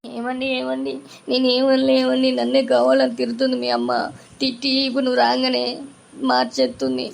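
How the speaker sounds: high, whiny put-on sob to her husband; fake crying. Wife complaining tearfully to husband about his mother, fake crying. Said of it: "ఎందుకు ఎడుతున్నావు చెప్పు".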